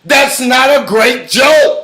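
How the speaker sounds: loud, slow, forceful scolding; heated rebuke. Real, not acted. Guest rebuking host's joke about white rappers, heated rebuke. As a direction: drive each word home.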